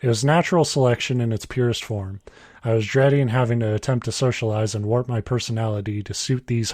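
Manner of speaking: even, measured reading voice; story read aloud. A narrator's reading. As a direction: read the written story out plainly.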